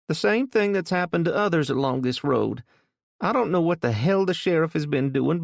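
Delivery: put-on an old woman shaken and fed up; upset old woman. A narrator's reading. Frightened old woman complains.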